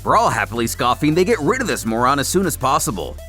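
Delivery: ordinary delivery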